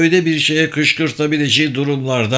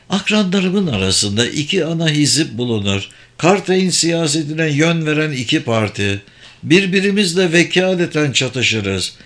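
a lightly voiced mage explaining the scheme; kendinden emin büyücü. Sabır explains factions. (kendinden emin, açıklayan büyücü sesi)

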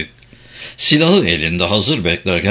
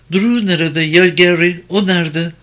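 higher, urgent worried asking; anxious questions; 7 semitones higher, 3 dB louder than usual. A narrator's reading. Wounded Karin anxiously asks Dietz where her men are. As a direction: press for news of them.

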